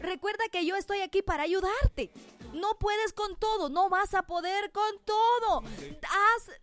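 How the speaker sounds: voice of the Lord. Acted. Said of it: "Dice el Espíritu Santo".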